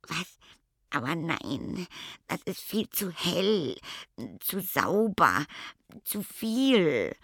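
hoch und aufgebracht protestierend; entsetzter Stichkopf. A narrator's reading. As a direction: wehr dich panisch gegen das Licht. Stichkopf entsetzt über Helligkeit. (hoch, entsetzt und protestierend)

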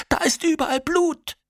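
hoch, langsam und gellend; panischer Schrei. A narrator's reading. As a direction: schrei entsetzt das Blut heraus. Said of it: "schreit Nina". (hoher, gedehnter Schreckensschrei)

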